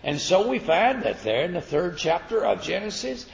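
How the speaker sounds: rising, ringing sermon delivery; preaching. Acted. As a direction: preach it out to the congregation. Preaching the Bartimaeus story.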